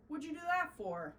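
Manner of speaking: put-on high, squeaky indignant kid; indignant squeak. A narrator's reading. Snow mite Jasper protests the snow dumped on him, high and squeaky.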